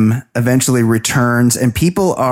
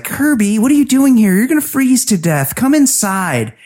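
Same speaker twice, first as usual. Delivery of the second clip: surprised calling out; 6 semitones higher than usual. Retold or imitated. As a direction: call him in, surprised and higher. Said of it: "she's like".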